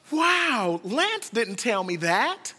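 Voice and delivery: surprised wow. Retold or imitated. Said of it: "she goes".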